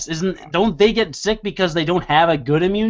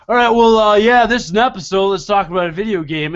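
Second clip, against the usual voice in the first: mock podcast host; 3 semitones higher, 4 dB louder, faster than usual. Imitating a podcast host's late start.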